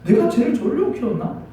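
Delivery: imitated mother's exasperated reproach; mild mock indignation; resentful complaint. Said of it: "그런 원망이 굉장히 많이".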